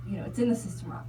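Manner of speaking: fast, matter-of-fact rattle; brisk nurse. Retold or imitated. Nurse explaining the record error, fast and offhand. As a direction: rush through it like a routine excuse.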